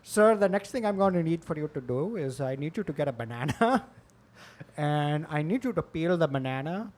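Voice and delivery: imitated scam-caller accent, mock official; odd call-center accent giving instructions; polite fake agent in a foreign accent. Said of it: "the accents are all, they can't do".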